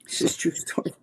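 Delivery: sudden unvoiced whisper, leaning in. Real, not acted. Host leans in to swear the story is true, whispering. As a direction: breathe it like a secret. Confiding aside to the listener.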